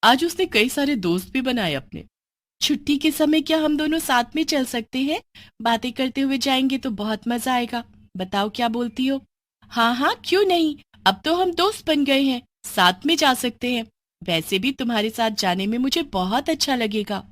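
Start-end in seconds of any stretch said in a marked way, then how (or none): 2.6-9.2 put-on bright higher girl voice; friendly asking to walk home; schoolgirl friend. New friend asking Bini to walk together, girlish voice. 9.6-17.3 put-on young girl Bini. Bini agrees.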